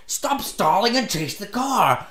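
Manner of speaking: high, drawn-out scolding imitation; exasperated high-pitched mock order; retold anger. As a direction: mimic an angry lady, high and slow. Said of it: "she starts getting angry at me".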